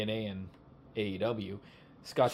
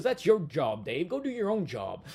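slow, louder southern drawl imitating Jimmy Hart; southern accent; 5 semitones higher, 3 dB louder than usual. Jimmy Hart telling Dave off, in a southern accent. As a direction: mimic a southern wrestling manager telling Dave off. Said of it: "he's got that southern accent".

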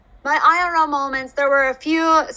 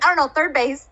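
Who's on First line; 4 semitones higher than usual. Retold or imitated. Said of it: "Abbott and Costello's Who's on First".

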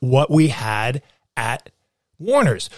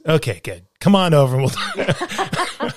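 put-on old Hollywood guy. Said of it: "Like old Hollywood guy".

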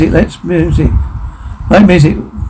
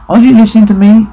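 insistent demand; 5 semitones higher, 3 dB louder, faster than usual. Acted. Character demands to be heard.

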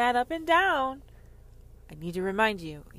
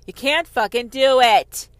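louder, higher repeat of the line; shout; 4 semitones higher, 14 dB louder than usual. Acted. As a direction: slam it home the second time. Repeated line, shouted second time.

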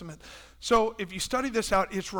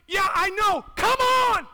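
loud, high, rousing call; fervent preaching shout; inviting Jesus; 11 semitones higher, 6 dB louder than usual. Pretend. Jesus answers objection.

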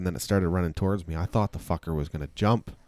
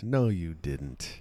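doubtful denial; 4 semitones lower, 8 dB quieter, much slower than usual. Real, not acted. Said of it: "That's my point".

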